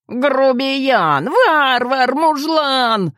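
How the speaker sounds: indignant shout of insults, high; возмущённо. A narrator's reading. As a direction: hurl the insults in outrage. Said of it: "возмутился Генчик". (возмущённый выкрик)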